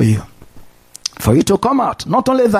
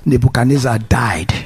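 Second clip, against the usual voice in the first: hushed whisper; 7 semitones lower than usual. Acted. Preacher telling the congregation, hushed whisper. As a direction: whisper the name, hushed and low. Dramatic reveal in sermon story.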